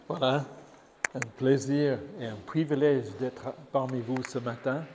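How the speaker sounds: normal talking voice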